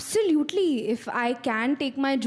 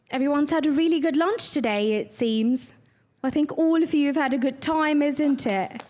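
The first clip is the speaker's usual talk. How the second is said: light British accent, a touch brighter; addressing the crowd in a lightly put-on British accent; 3 semitones higher than usual. Shown as a demonstration. Actress demos a British accent for the audience, lightly done. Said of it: "British? Or, or, or American accent".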